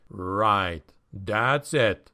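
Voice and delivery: plain reading voice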